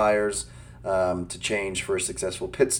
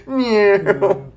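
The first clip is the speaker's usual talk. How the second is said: cat meow; 10 semitones higher, 5 dB louder than usual. Pretend.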